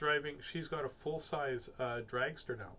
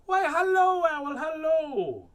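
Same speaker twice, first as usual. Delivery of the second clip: much higher, louder, drawn-out hello; sing-song cheeky greeting; chirpy mouse; 13 dB louder, slower than usual. Acted. Mouse greeting the owl, high loud sing-song.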